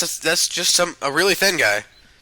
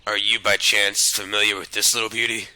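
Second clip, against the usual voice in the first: game character; 6 semitones lower, 4 dB quieter than usual. Acted. Reads a game character's line.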